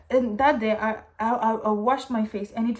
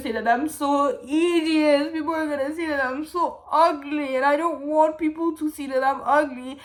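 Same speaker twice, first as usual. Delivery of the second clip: tearful despair; 3 semitones higher, 3 dB louder than usual. Retold or imitated. Voicing her crying despair.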